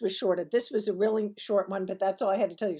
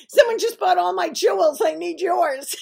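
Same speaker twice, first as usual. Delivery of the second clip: excited mother; 9 semitones higher, 9 dB louder than usual. Retold or imitated.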